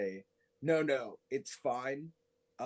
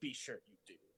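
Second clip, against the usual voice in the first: very quiet, forceful, hushed voice; 3 semitones lower, 10 dB quieter than usual. Voicing a character answering a promise to keep watch: quiet but forceful. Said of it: "He will quietly but loudly say".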